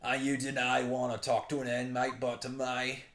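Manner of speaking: put-on Australian governor; Australian accent. Governor questioning visitors about an inmate, Australian accent. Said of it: "I'm just making him an Australian".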